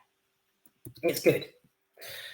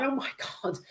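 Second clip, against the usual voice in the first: higher-pitched, mock-thrilled kid reaction; retold boyhood excitement; 5 semitones higher than usual. Recalling first watching Halloween as a boy, mildly excited. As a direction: retell being thrilled, starting hushed and high. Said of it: "I nearly shat myself with excitement".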